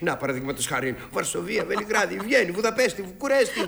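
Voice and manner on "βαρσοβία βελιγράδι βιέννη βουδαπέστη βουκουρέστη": cities rising higher and louder one by one; swelling, excited list of capitals; building excitement. Acted. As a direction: build each city name into a grand boast.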